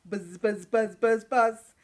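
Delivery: buzzing bee. Pretend. Playful bee buzzing for kids.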